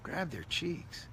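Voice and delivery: a hint of Droopy while squishing cheeks; Droopy Dog. Showing how people grab cheeks, droopy drawl. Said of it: "grab their cheeks to make the Droopy Dog".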